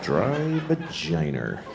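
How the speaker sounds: Boston "vagina" ending in -er; drawn-out Boston accent on "dry vagina". Shown as a demonstration. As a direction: say "vagina" as "va-JINE-er", Boston style. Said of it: "because I grew up in Boston".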